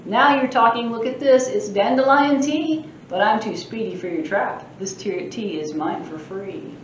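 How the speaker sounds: a lightly voiced mischievous leprechaun boasting; cheeky leprechaun. Librarian reading the leprechaun's boasts aloud, cheeky. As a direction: tease the reader like a sprite.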